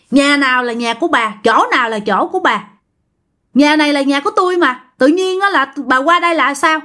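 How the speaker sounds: mildly indignant comeback, pitch lifting at the end; a touch of scolding in a retold retort; talking back. Aunt talking back to the ghostly old woman, mildly indignant. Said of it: "Dì ba mới nạt lại".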